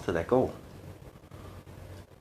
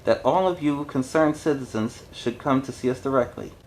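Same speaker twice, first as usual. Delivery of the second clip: mild smarmy politician; 3 semitones higher than usual. Acted. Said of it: "being a politician to the core".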